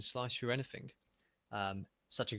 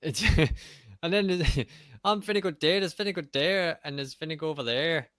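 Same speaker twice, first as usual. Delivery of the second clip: laughing; 6 semitones higher, 6 dB louder than usual. Real, not acted. Joking, laughing through cousin bit.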